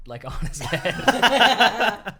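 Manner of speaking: high, slow, loud punchline through laughter; real laughing. Real, not acted. Teller revealing where the remote was, laughing. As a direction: lose it while finishing the line.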